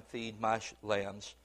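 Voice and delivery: low, soft command; gentle charge. Retold or imitated. Jesus quietly charging Peter, low and soft. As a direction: hand it over quietly like a shepherd.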